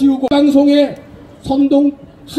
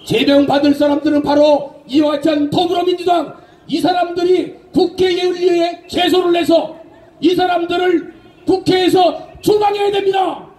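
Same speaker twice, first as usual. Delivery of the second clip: shouting; 3 semitones higher than usual. Real, not acted. Rally speech demanding expulsion.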